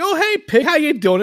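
very high-pitched retold hello; acted greeting. Dreamer says hello to the pig, high acted greeting.

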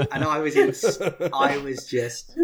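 talking through laughter; words broken by laughter; laughing. Real, not acted. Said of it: "I couldn't stop laughing".

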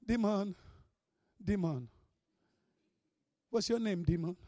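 soft, low, hesitant calling; mock timid. Timid believer questioning a demon, mock timid. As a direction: address it meekly, with long pauses. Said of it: "You think that demonic spirit".

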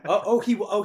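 bursts out laughing mid-word, high and loud. Real, not acted. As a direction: laugh through the oh's in disbelief. Mocking host laughs at the comparison.

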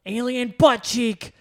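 loud, high, slow mock-outraged mother; hammed-up pearl-clutching parent; outraged mom. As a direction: play a scandalised mom through laughter. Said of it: "somebody's mom was like".

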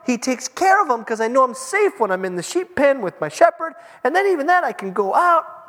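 a cheerful, carefree little sheep boasting about its shepherd; happy sheep. Retold or imitated. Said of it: "and the sheep says".

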